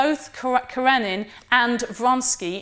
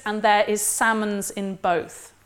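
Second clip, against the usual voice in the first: put-on Welsh accent. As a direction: finish the line in a Welsh accent. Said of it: "I believe, in a Welsh accent".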